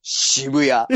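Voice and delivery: low 渋谷 with English intonation; 渋谷 in a put-on English accent; English announcement accent. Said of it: "英語ね".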